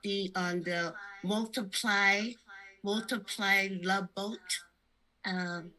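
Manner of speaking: low, timid rabbit voice; apologetic space bunny, hesitant; soft shy stuffed bunny. Pretend. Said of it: "I'm a rabbit in outer space".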